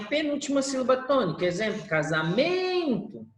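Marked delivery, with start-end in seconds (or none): 1.9-3.3 casamento with "men" drawn out long; calling the word. Shown as a demonstration. Teacher giving an example of paroxítona, casamento stretched on "men". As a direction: hold the syllable "men" in casamento, then drop on "to".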